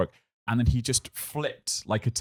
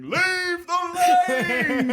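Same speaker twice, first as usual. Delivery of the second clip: put-on high, slow, strangled old man yell; mock old man shouting; 5 dB louder, much slower than usual. Retelling the old man at the pool, high mock shout. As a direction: ham up a furious old swimmer. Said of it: "'cause he's shouting".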